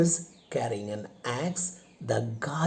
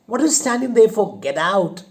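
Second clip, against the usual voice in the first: fast, loud, high angry yell; angry shout; 7 semitones higher, 8 dB louder, faster than usual. Acted. Widow furiously ordering the suitor out, fast shout. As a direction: drive him out of the room. Popova driving Smirnov out.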